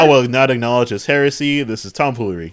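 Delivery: loud, pompous refusal; mock tribal elder denouncing heresy; outraged elder. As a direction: sound scandalized and formal. Elder rejecting Killmonger.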